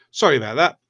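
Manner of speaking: muffled just after blowing nose. Real, not acted. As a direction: speak right after blowing your nose. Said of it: "Excuse me while I blow my nose".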